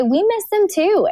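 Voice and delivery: high, slow, gently emphatic quote; retold empathy. Parent sharing children's grief, retold in high, slow sympathy. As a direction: draw it out high, as if consoling a child.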